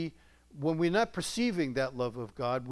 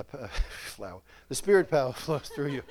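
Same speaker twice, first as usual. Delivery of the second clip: laughing. Real, not acted. Laughs at his own slip.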